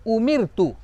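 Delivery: उमिर तू with a fine, thin R; thin light R. Shown as a demonstration. Teacher giving example of the rule, thin R. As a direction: keep the R in उमिर तू light and unthickened. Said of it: "बारीक यानी पतली करके".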